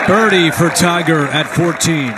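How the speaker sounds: loud, high birdie call; excited call. Real, not acted. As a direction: raise it for the big moment. Calling Tiger's birdie.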